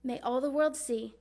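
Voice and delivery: earnest storytelling as Mary; measured, expressive stage delivery; dramatic monologue. Acted. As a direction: recite it as a mother's heartfelt recollection. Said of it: "performing a dramatic monologue".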